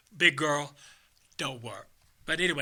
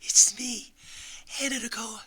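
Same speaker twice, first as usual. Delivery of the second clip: Anna Nicole Smith; 8 semitones higher than usual. Acted. Comic showing off an Anna Nicole Smith impression. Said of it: "I've done Anna Nicole Smith".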